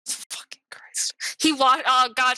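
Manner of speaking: breathless whisper, half laughing; whispered disbelief. Real, not acted. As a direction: gasp it out under your breath. Reacting in disbelief to punchline.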